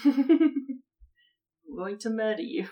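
slow threat through laughter; laughing mock threat. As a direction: giggle out a fake threat.

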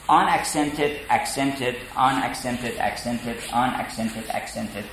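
a steady weak-strong beat; iambic pattern. Shown as a demonstration. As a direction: tap out the iambic rhythm. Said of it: "then this is called iambic".

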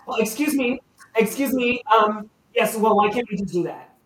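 high, loud busybody voice; a shrill-free but loud, high interrupting villager; pushy townsperson. Acted. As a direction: call out over the crowd, high and insistent. Townsperson insisting.

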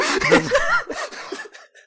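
a loud shrieking burst of laughter; high squealing laugh. Real, not acted. GM cracking up at own description, shrieking laugh.

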